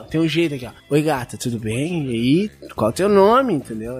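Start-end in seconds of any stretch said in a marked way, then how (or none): 0.9-3.5 smooth seductive line. Shown as a demonstration. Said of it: "ó, o jeito de falar".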